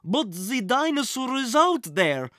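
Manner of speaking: high, loud frightened cry; panicked scream. Acted. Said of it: "screamed the man".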